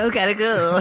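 laughing while echoing; chuckling through the words. Real, not acted.

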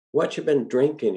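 put-on a touch of light, curious old man; asked lightly. A narrator's reading. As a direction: ask it with easy interest. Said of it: "he asked lightly".

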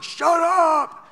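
high, loud scolding yell; sharp shout. Retold or imitated. Disciples loudly telling the beggar to shut up. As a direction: shout him down.

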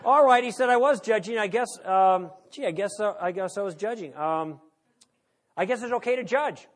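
loud, laughing admission; grudging concession. Retold or imitated.

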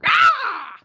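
sudden high shouted "Ah!"; jay god's "Ah!". Retold or imitated. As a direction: bark out a sharp high "Ah!". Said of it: "he would end it with".

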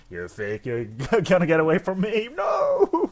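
loud, rising snarl that peaks high on No; menacing yell. Acted. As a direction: growl it, then shriek the No. Acting out a vampire attack.

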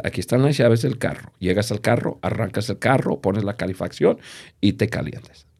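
lightly voiced father talking his son down calmly. Father to crying son in the snow, softly reassuring.

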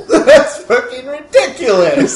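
loud, high, slow laughing scoff; laughing outburst. Acted.

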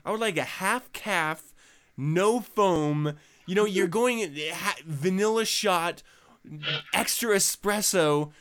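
pretentious order. Retold or imitated. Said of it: "the pretentious way that you're ordering it".

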